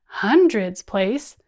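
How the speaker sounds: loud slow chant; bigger voice. Shown as a demonstration. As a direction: boom out the big column slowly. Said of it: "using our hands and our voices".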